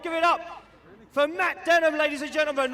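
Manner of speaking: hyped arena announcer; big ringside introduction; announcer intro. Real, not acted.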